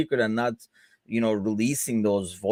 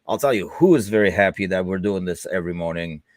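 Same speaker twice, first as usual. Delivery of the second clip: dry sarcastic aside; 4 semitones lower than usual. Acted. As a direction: say it with a sarcastic twist. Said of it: "in the most sarcastic possible way".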